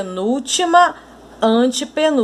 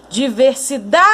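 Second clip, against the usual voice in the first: long-distance call, stretching the stressed DA; calling out a word. Shown as a demonstration. Teacher calls a faraway word to reveal its stressed syllable, calling out. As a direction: call DIVERSIDADE as if to someone far away, DA held long. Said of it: "a sílaba mais forte é o da".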